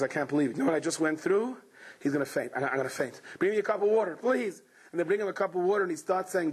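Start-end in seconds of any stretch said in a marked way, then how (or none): 0.0-4.6 lower, drained voice about to faint; faint and exhausted. Retold or imitated. Father at the doctor's door, exhausted and lower. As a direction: sound ready to collapse. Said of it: "And he goes".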